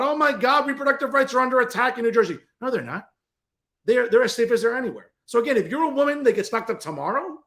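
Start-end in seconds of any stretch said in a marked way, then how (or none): 0.0-2.4 higher, fast, mocking whine of a panicked activist; mocking whiny quote. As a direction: mimic the hysteria, quick and pitched up. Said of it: "bitch and moan about".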